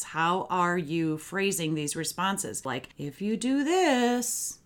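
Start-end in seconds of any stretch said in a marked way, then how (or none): 3.0-4.6 slow, pointed warning; menacing parent warning, slowly; threatening tone. Shown as a demonstration. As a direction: say it like a veiled threat, drawn out. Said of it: "lilt in your voice ... We don't wanna be using those kinds of tones".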